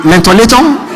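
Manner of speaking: Manhattan mangled into Mentolatum with a laugh; joking mispronunciation. Shown as a demonstration. Comic stumble on Manhattan while joking, laughing. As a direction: play the wrong word Mentolatum for Manhattan, laughing. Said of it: "too close to Hamatan".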